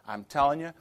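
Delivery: normal talking voice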